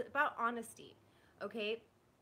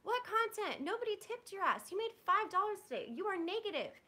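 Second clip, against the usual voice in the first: angry outburst; 7 semitones higher than usual. Real, not acted. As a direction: tear into him over the fake excuse. Furious rant at boyfriend.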